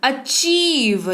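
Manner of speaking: अचीव drawn out, "a-CHEEV"; slow अचीव, weight on the second syllable; stressed long "ee". Shown as a demonstration. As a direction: lean on the "ee" in अचीव. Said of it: "जोर पड़ा".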